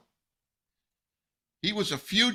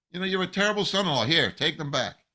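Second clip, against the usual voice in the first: higher-pitched, quick mock telling-off; mock scolding; 4 semitones higher, 4 dB louder, faster than usual. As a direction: play an exasperated father-in-law, lightly hammed up. Acting out father-in-law returning the family.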